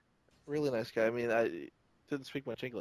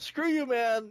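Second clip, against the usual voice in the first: higher, cocky brush-off; defiant young Prowl; 11 semitones higher, 4 dB louder, slower than usual. Retold or imitated. A fan voices young Prowl defying Warpath, cocky and high. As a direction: spit it out like a rebellious kid. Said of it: "he's like".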